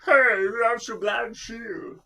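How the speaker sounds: high, loud frog puppet voice; Kermit impression. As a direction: squeak it out like a muppet frog. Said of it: "Shermit the Frog".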